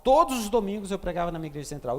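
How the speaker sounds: same line said fast, pressing on; hurried emphatic repeat. Shown as a demonstration. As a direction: rush the repeat to drive it home. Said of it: "repeats the line faster".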